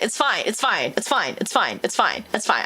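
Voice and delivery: repeated low reassurance to oneself; muttered self-reassurance, repeated; self-soothing mantra. Pretend. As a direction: talk yourself down, calmly. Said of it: "I say it to myself".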